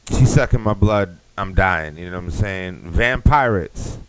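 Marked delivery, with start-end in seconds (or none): 2.8-4.0 drawn out slowly like a movie trailer; trailer title. Acted. Comic pitching a fake movie, slow trailer voice.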